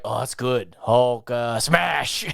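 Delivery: low, offhand take on Hulk; mock Hulk. Imagining Hulk accepting his new name, mock-casual. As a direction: play Hulk lightly, building to the catchphrase. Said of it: "later Hulk was like".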